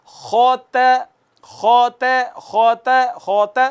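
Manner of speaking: خوت with lips kept rounded so ت turns heavy; wrong rounded ت. Shown as a demonstration. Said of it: "ہونٹ گول ہی رکھیں گے".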